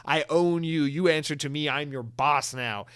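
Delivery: hammed-up villainous gloat; gloating boss. Boss gloating over the CEO he bought, mock villainy. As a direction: lord it over them, slowing at the end.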